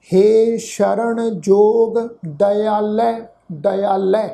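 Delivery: very slow, long-held syllables; scripture recitation. Shown as a demonstration. Teacher models the word for congregation, slow recitation. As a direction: recite slowly, then repeat the last word. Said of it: "ਇਸ ਸ਼ਬਦ ਦਾ ਪਾਠ ਉਚਾਰਨ ਕਰਾਂਗੇ".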